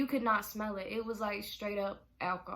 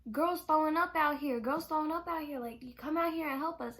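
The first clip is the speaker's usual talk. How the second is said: louder, higher mock alarm about the sick girl; retold panicked call; 5 semitones higher, 3 dB louder than usual. Lance at the bedroom door, calling for help in mock panic. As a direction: imitate a frantic friend yelling for help.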